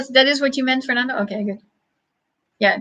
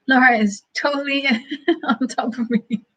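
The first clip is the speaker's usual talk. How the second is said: laughing. Real, not acted. Laughing while reading chat.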